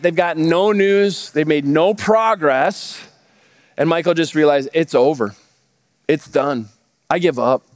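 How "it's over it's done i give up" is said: near tears. Retold or imitated. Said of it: "is on the verge of tears".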